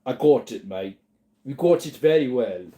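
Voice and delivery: a light mock British accent. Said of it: "No, Prince Harry, mate".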